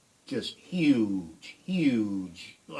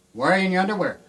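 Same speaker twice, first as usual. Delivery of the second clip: puzzled passer-by; 8 semitones higher, 6 dB louder, much faster than usual. Retold or imitated. Passer-by questions him.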